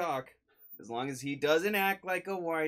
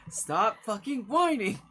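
angry snap; 6 semitones higher, 4 dB louder, slower than usual. Acted. Possessor snaps at trapped soul.

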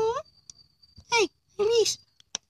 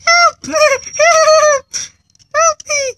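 mock cry for help; 2 semitones higher, 5 dB louder, slower than usual.

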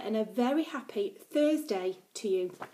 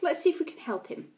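commanding uncle; 5 semitones higher than usual. Acted. Uncle Edward calms quarrel.

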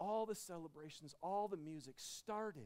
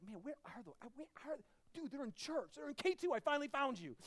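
mock searching God; 8 semitones higher, 4 dB louder than usual.

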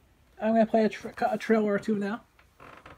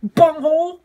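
Beavis-style bunghole; 3 semitones higher, 9 dB louder, slower than usual. Acted. Repeats Beavis bunghole joke.

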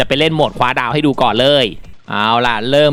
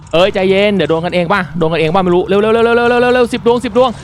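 frantic urging; 6 semitones higher, slower than usual. Real, not acted. Player urging himself to load stars before time ends, frantic. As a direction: rush through it as the clock runs out.

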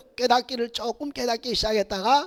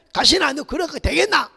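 scolding father; 3 semitones higher, 6 dB louder than usual. Retold or imitated. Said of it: "그 옛날에는".

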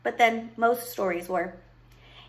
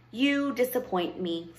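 slow, measured witch's verdict; disappointed witch. Acted. Witch judges the loveless princess, disappointed. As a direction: pronounce judgment slowly, without raising the voice.

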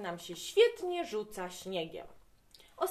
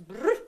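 a loud shivery brr; dad shivering at the thermometer, loud brr; 8 dB louder than usual. A narrator's reading. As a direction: shudder out a cold brr. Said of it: "aż się zatrząsł".

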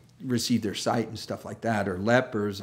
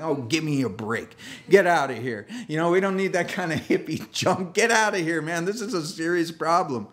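scoffing dismissal; 5 semitones higher than usual. Retold or imitated. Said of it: "And you're like".

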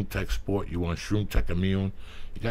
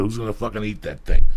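loud rant; 8 dB louder than usual. Acted. Crude ad-read rant.

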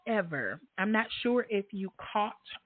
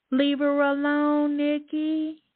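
higher, louder and slowed, each word leaned on; emphatic repeat; 7 semitones higher, 4 dB louder, slower than usual. Real, not acted. Host warning Nikki a second time, loud emphatic. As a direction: say it again so Nikki hears you. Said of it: "Now leave her alone, Nikki".

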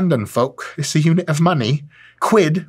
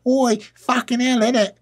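put-on British accent; 11 semitones higher than usual. Host demonstrating his British presenting voice, mock British accent. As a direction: ham up a rowdy British accent. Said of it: "present in my British accent".

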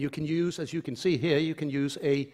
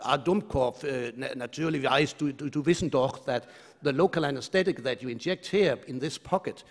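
put-on German accent. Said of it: "funny German accent".

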